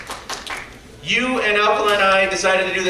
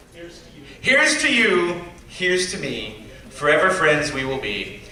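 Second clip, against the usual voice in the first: toast recital; 2 semitones lower, slower than usual. Acted. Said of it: "I have a quick toast".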